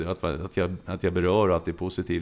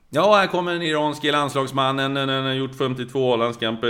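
lively play-by-play call, pitched up; commentator voice; 5 semitones higher than usual. Retold or imitated. Sports commentator calling a substitute, high and lively. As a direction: announce the player like a live match. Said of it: "han kommer naturligtvis igen".

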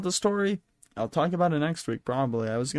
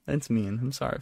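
normal talking voice

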